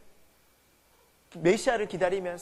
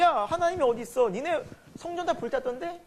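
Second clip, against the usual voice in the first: lightly mocking taunt, pitched higher; imitated jeering; 6 semitones higher than usual. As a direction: imitate the Babylonians scoffing at a defeated people. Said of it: "바벨론 사람들이 비웃는 거예요". (높은 톤으로 흉내 낸 가벼운 비웃음)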